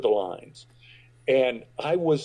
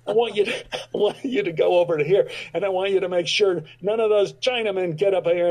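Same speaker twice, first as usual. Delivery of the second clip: higher, fast, half-laughing orders; Powers briefing a horse; 5 semitones higher than usual. Retold or imitated. Actor gravely giving the horse orders, high and quick. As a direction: rattle off instructions to the horse, amused. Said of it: "He says".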